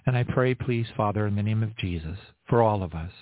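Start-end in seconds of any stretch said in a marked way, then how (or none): none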